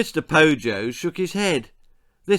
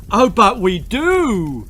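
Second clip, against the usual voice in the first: blurted; 8 semitones higher, 8 dB louder, slower than usual. A narrator's reading. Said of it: "blurted Mister Cluck".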